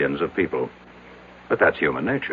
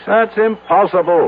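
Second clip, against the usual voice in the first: exasperated outburst; 12 semitones higher, 4 dB louder than usual. Acted. Businessman rejecting spirit explanation.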